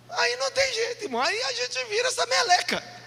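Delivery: high-pitched comic lament; squeaky mock despair; mock whine. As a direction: whine it high, all in one strain. Mock lament about bad company.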